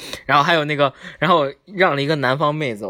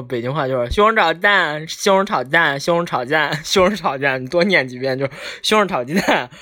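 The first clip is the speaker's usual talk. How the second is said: 西红柿炒鸡蛋 run together into a slurred blur; Beijing accent. Shown as a demonstration. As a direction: say 西红柿炒鸡蛋 swallowing syllables, Beijing style. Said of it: "这北京话就是这么念的".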